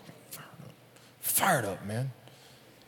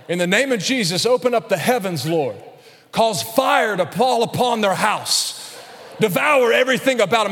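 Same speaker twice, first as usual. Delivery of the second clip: hammed-up vengeful prayer, building louder; mock fire-and-brimstone prayer; 4 semitones higher, 4 dB louder than usual. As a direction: call down fire in mock fury. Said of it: "I got a prayer for 'em".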